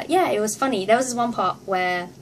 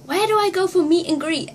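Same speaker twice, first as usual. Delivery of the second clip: confused asking; 8 semitones higher, 5 dB louder than usual. Retold or imitated. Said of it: "I was so confused".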